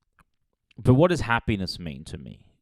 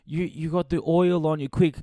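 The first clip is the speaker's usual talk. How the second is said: high, breathless mock alarm; hammed-up concerned gasp; naive heroine; 7 semitones higher than usual. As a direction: play the clueless heroine gasping. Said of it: "And it's like".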